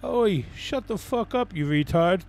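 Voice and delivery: put-on London roadman accent. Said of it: "Sorry for the accent there".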